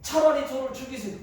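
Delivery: sulky angry plea; petulant outburst. Acted. Jonah angry at God for losing the shade. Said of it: "또 화를 냅니다".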